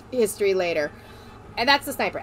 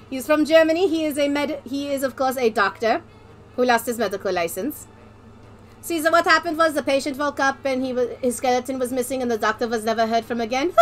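Medic's put-on German accent; comic stage-German storytelling. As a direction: tell it as the German doctor. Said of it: "I'm gonna be doing a German accent".

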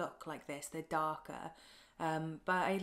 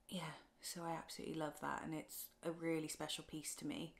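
emotional; 5 dB quieter than usual. Real, not acted. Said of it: "Oh, very emotional".

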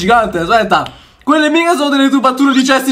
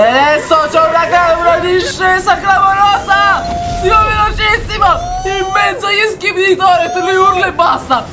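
excited commentary; 5 semitones higher than usual. Real, not acted. Commentates on fast minecart descent.

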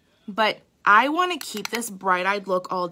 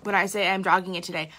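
sleepy voice. Real, not acted. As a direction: talk like you just woke up. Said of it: "I even have sleepy voice".

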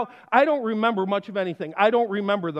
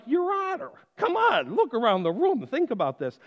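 pleading; 3 semitones higher than usual. Retold or imitated. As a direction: beg the judge to see reason, pitch raised. Pleading with judge in court.

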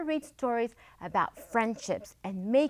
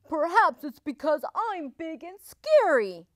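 lightly voiced wolf wondering aloud; higher, musing storybook wolf; pondering wolf; 4 semitones higher, 6 dB louder than usual. A narrator's reading. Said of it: "he said to himself".

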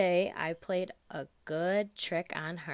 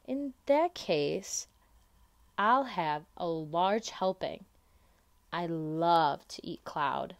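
slow, savouring acceptance; delighted child; slower than usual. Acted. Lola happily accepts the cloud fluff, slowly. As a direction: draw it out with relish.

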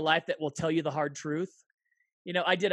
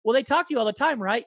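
probing; 6 semitones higher, 7 dB louder, faster than usual. Retold or imitated. Acted probing gossip friend.

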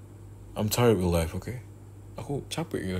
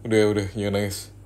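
fast, louder shushing; impatient hushing; 5 dB louder, faster than usual. Acted. Hushing the crying girlfriend fast and impatiently. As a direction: rush to make her stop.

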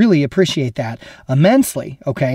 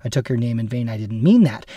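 softer, lower sincere apology to God; apologetic prayer; 3 semitones lower, 3 dB quieter than usual. Retold or imitated. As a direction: murmur a contrite sorry to God. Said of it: "I quickly apologize to God and say".

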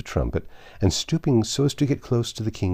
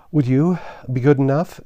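higher, breathless broken request; panting; 7 semitones higher, 4 dB louder than usual. A narrator's reading. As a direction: ask as if winded from running. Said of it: "Alice panted out".

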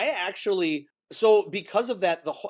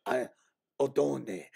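Nick Nolte impression; 6 semitones lower, 6 dB quieter, slower than usual. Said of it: "he talking like this".

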